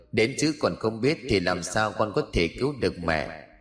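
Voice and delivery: soft, understated mother's voice; lightly voiced mother, gently giving up hope; resigned ghost mother. Mother's ghost telling her child there is no way, softly resigned.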